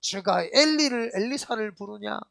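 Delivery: a touch of scornful questioning; mild mocking. Pastor imitates those ridiculing the cry, mildly mocking. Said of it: "막 하면서 조롱하고".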